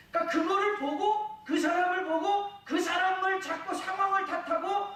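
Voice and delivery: high, loud sermon voice, driving each phrase; impassioned preaching. Acted. Pastor urging the congregation at full force, impassioned preaching.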